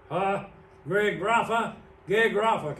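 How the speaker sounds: ram "gegrapha" down their throats; emphatic, forceful. Retold or imitated. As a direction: punch each "gegrapha" like a closed verdict. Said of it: "Can't you see him cramming it down their throat".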